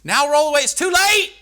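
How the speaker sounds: loud, high preacher's cry; preaching at full force. Acted. Preacher calling out to the congregation, full force. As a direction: call it out over the congregation.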